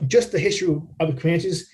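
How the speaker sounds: speaking around a burp; a burp caught mid-phrase. Real, not acted. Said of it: "excuse me, I'm burping".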